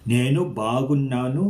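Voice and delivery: "Nenu Bagunnanu" said very slowly, nn held long; slow demonstration. Shown as a demonstration. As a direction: spell out "Nenu Bagunnanu" syllable by syllable.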